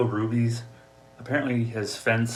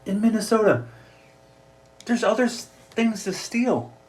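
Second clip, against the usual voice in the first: mock high voice; 11 semitones higher, 5 dB louder than usual. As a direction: squeak it out like a silly old crook. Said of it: "He's like".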